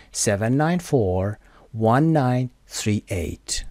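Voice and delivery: seven nine four with a pause, then one nine three eight falling; slow groups, pitch drops at each end; falling tone on phone number. Shown as a demonstration. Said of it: "یه حالت فالینگ تون داشته باشه".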